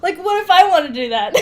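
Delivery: half-laughing teasing ask; laughing mock question. Co-host teasing host about the stolen email, giggling. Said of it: "you didn't say".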